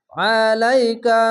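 আলাইকাল with the ain squeezed from the throat; a heavy, throaty ain; throat-pressed ain. Shown as a demonstration. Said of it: "গলা চিপে পড়বেন".

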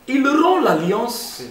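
slow, high and drawn out; dramatic emphasis. Acted. Preacher warning the brothers, slow high emphasis. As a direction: let the betrayal land slowly.

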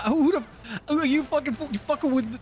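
mock Italian mobster accent; hammed-up Italian Don accent; fake Italian accent. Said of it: "Fake Italian".

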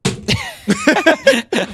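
high burst of laughter; high-pitched laugh. Real, not acted. Bursts out at game error. (ψηλό, ξαφνικό γέλιο)

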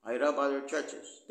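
"rob" hit hard, the verse read out loud and firm; emphatic reading. Shown as a demonstration. Preacher reading Paul's verse aloud to the congregation, loud and emphatic. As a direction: proclaim "I rob other churches" with a punch on "rob". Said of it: "That's sarcasm".

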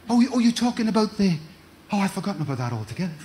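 fast, laughing, breezy; laughing dismissal. Retold or imitated. Husband laughing off his wife's guilt, quick and amused. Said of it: "I said".

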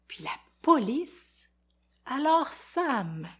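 put-on expressive read-aloud for kids; lecture d'album. A narrator's reading. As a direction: tell it like a lively storyteller to children. Lit un album aux enfants. (lecture animée pour enfants)

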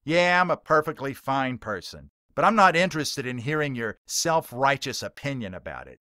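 emphatic rant. Acted. Heckler ranting at the preacher, loud and contemptuous. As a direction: let the contempt boil over. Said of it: "Billy Mack emphatically states".

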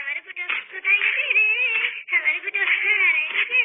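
wife weeping over her missing husband; sobbing wife. Acted. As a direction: cry out the loss through sobs. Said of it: "তোমরা কান্না করো না".

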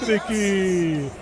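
fast, excited live play-by-play; brazilian football narration. Real, not acted. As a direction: call the goal replay like radio. Live radio football commentary. (narração de futebol no rádio)

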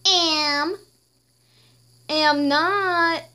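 put-on squabble like two kids; two queens bicker over the crown; playground argument.

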